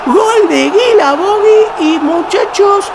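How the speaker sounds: long, high, shouted goal call. Real, not acted. Goal scored in match.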